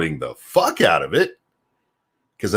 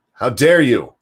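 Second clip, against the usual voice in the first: louder, hammed-up indignant cry; mock shocked outburst; mock outraged; 3 semitones higher, 6 dB louder than usual. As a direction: play the offended scold to the hilt. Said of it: "they'd be like".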